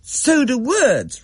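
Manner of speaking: put-on child Rachel. A narrator's reading. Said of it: "Rachel said".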